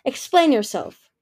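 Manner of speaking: slow, loud, commanding demand; menacing demand. A narrator's reading. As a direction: make her answer for it. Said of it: "Darkstalker's menacing voice rumbled".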